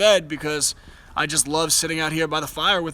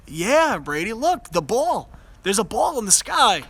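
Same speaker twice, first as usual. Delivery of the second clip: higher, lightly sing-song parent voice; talking to a toddler; 5 semitones higher than usual. Retold or imitated. Father showing his son the moon, lightly raised parent voice. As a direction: coax a little one to look up. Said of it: "And I was saying".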